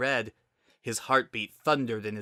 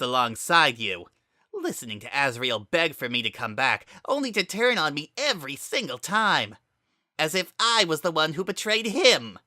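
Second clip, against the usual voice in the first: bitter rant; 5 semitones higher than usual. Acted. Kara rants about betrayal.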